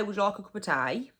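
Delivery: "tea" said like "tie", quick and light; Black Country tea. Shown as a demonstration. Offering a cuppa in broad Black Country, "tea" like "tie". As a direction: rattle it off the local way, "tea" as "tie". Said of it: "Tea, so the letter T".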